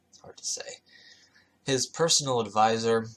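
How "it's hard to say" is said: whispered aside. Real, not acted. Aside after stumbling on name.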